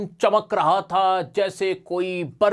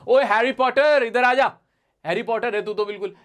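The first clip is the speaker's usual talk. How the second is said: teasing call-out; 4 semitones higher than usual. Retold or imitated. Teacher mimics calling a friend Harry Potter, playful call-out. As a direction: shout across to a pal, jokingly. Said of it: "उसका कोई main character था".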